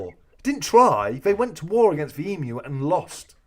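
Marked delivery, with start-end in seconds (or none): 0.1-1.1 slow, high, insistent hit on "try"; emphatic correction. Real, not acted. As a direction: stress on TRY, drawn out and loud.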